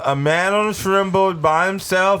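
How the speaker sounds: squeaky high cartoon voice; goofy high voice. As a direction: pitch it high and silly. High goofy voice pitching movie.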